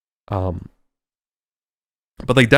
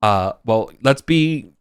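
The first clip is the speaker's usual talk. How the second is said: mock calming; 3 semitones higher, 3 dB louder than usual. NPC trying to calm others.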